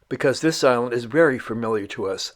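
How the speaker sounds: very leaned on with extra weight; stress on very. Real, not acted. Host stressing how well he knows the island, stress on very. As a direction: give the word very a firm push. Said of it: "I emphasize the word very".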